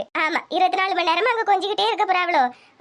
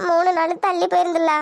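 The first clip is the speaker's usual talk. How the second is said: mildly tearful confession; understated weepy voice. Acted. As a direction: break the news to mother, near tears. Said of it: "எதுக்கிட்டி அழுவுறா".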